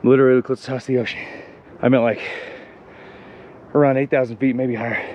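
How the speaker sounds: breathless while climbing; panting between words; out of breath. Real, not acted. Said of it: "So out of breath".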